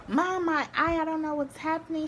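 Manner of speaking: high, rushed, frightened voice; panicked plea. Retold or imitated. Daughter panicking to mom on FaceTime, high rushed plea. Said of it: "FaceTime her, like".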